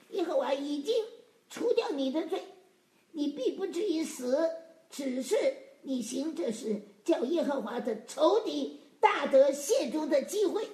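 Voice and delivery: measured proclamation building in force; emphatic scripture reading. Acted. Preacher reads Nathan's answer to David, emphatic scripture reading. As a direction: read out the verdict, driving home the last phrase.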